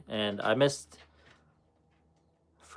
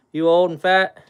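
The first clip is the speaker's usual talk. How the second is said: louder playful dog talk; teasing the dog; 6 semitones higher, 9 dB louder than usual. Real, not acted. Owner teasing his old, fat husky, louder. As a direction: tease the dog fondly.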